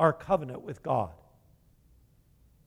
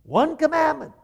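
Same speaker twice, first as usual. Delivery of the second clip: much higher and louder, a booming divine command; voice of God commanding; 11 semitones higher, 7 dB louder than usual. Pretend. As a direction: proclaim it like God laying down the one law. Preacher voices God's command.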